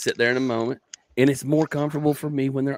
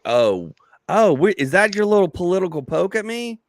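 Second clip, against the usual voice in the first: higher, hammed-up affronted challenge; mock indignation; 8 semitones higher, 3 dB louder than usual. Comic confronting the host over a political poke, mock indignant. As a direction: call out the jab in mock offence. Acts out challenging the host's jab.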